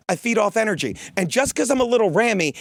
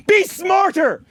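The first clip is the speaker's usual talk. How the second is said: scolding the listeners, angry; angry order; 9 semitones higher, slower than usual. Real, not acted. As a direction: snap it at them. Scolding audience.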